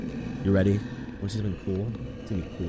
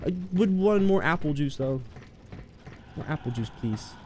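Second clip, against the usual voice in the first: dazed donor; 10 semitones higher than usual. Retold or imitated. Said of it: "And you're like".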